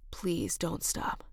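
slow, pleading whisper; begging whisper. Acted. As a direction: draw it out, begging softly. Aroused man begging.

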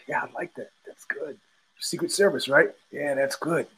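soft muttering Travis Bickle; a hushed, mumbled Bickle quote; Travis Bickle impression. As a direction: murmur it to yourself like Bickle. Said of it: "I felt like Travis Bickle".

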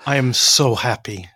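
put-on slow, teasing Spanish-accented English; drawn-out mimic of a Catalan manager; mock Pep accent. Guest teasing the host by echoing his Pep accent.

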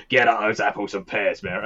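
lightly put-on stagey Cockney accent; a cheery mock Cockney line, barely pushed; Dick Van Dyke Cockney. Quoting Mary Poppins to friends, mild mock Cockney. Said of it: "When Dick Van Dyke would say".

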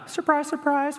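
high mocking surprise, surprise; sing-song sarcastic surprise; sarcastic aside. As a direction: toss it off with mock amazement.

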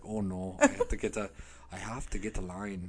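lightly put-on Minnesota voice; Minnesota accent. Singer needing a line, mock Minnesota worry. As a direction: play a fretting singer gone Minnesotan. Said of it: "goes into Minnesota and he's like".

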